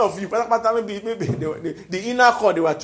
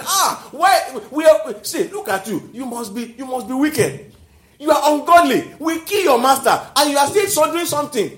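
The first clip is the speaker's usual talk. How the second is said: mock accusing; 5 semitones higher, 4 dB louder than usual. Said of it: "the authority said".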